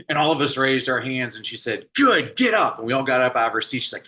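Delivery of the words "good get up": lightly voiced teacher, a bit higher and bright with purpose; teacher addressing class. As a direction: call the class like a lively schoolteacher.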